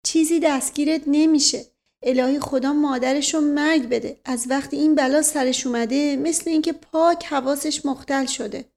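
lightly voiced distraught mother. Mother tells uncle asking her child is useless, fretting.

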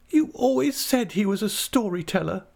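very high, tearful reproach; melodramatic, high-pitched acted sobbing; sobbing wife. A narrator's reading. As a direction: wail at the husband in a high little voice. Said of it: "sobbed Dora".

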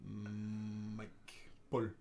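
low, soft put-on Greek accent. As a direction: mumble it in a deep Greek accent. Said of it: "That's the only Greek accent I could do".

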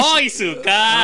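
slow, high drawn-out oh; mock mishearing. Guest jokingly echoes the Japanese phrase, slow and high. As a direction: stretch it out like a silly echo.

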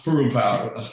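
"Peru Power" said the Peruvian way, with a tapped r in "Peru"; Peruvian pronunciation. Shown as a demonstration. Chef shows the host how to say the truck's name, Spanish-style. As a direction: give "Peru Power" its native Spanish sound. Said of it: "How do you say it in, uh, Peruvian?".

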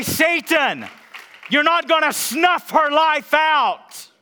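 slow, loud, high commanding shout; rebuking Satan. Retold or imitated. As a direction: order the devil off her, slowly.

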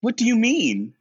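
high, concerned voice; Noah's worried question. Retold or imitated. Noah asking LaChance what's wrong, high and concerned. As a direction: ask with worry. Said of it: "so Noah says".

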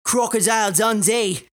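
a hint of Crocodile Dundee Australian; lightly put-on Aussie; light Aussie accent. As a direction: say it with an Aussie twang. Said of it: "I just pulled out my".

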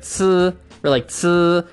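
"ts" hissed sharp, slow; Mandarin ts. Shown as a demonstration. Teacher showing hard Mandarin sounds. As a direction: say the ts cleanly. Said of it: "sounds that some people find challenging".

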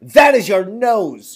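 lightly voiced cruel stepmother; wicked stepmother. A narrator's reading. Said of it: "she said".

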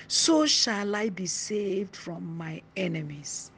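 slow, solemn reading of the psalm; scripture reading. Acted. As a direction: lay out each phrase slowly, like scripture. Reads Psalm 18 aloud.

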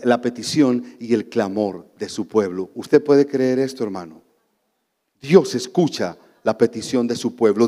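ordinary talk, nothing marked

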